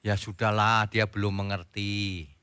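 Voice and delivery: low, easing into a slow soft line; softly resigned and forgiving; acted patient acceptance. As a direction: let it go gently, slowing down. Models patient acceptance of another's fault.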